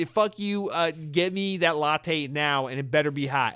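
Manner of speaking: forceful boss giving orders; bully them with mock fury; mock angry demand. Boss demanding his latte from the CEO, mock angry.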